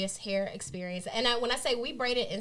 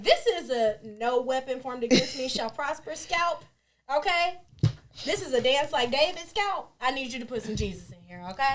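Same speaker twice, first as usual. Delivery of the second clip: raised, preachy churchy plea; churchy mock plea; 4 semitones higher, 4 dB louder than usual. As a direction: beg like a church lady.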